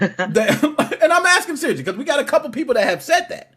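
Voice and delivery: talking through giggles; breaking into laughter mid-question; laughing. Real, not acted. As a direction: laugh while you ask it. Host laughs while asking.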